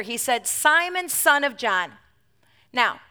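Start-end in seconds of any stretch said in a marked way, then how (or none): 0.5-2.0 full-name call. Shown as a demonstration. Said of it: "the equivalent of saying Peter's full name".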